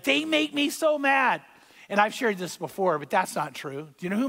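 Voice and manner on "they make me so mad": whiny "They make me so mad", "so" stretched high and slow; mock complaint. Preacher mimicking the congregation's excuse, mock whine. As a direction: mimic someone blaming others, pitched up. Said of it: "And we say, like".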